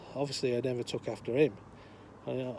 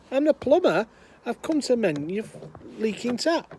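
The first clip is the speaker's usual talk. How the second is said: high, loud call, spelled out in chunks; exasperated plumber; 9 semitones higher, 7 dB louder than usual. Acted. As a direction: shout it through the door, exasperated. Plumber repeats, more exasperated.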